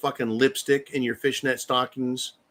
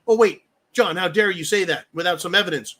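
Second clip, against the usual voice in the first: mock critic; 2 semitones higher than usual. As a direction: parody the pearl-clutching critic. Mocking imagined critic.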